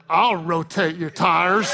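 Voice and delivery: slow, hammed-up come-on; suggestive innuendo. Husband answering wife about tires, mock-seductive. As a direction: turn a chore into a drawn-out flirtation. Man twisting chore into innuendo.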